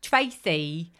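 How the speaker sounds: put-on Tracy said with a light English accent, almost Twacy. Telling a listener's story, says Tracy in a light London accent. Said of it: "I just say Tracy in that accent".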